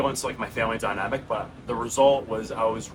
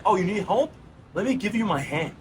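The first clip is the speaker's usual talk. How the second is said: higher, lightly voiced helpful stranger; kind rescuer voice; 7 semitones higher than usual. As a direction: offer a hand gently from above. A helper reaches down.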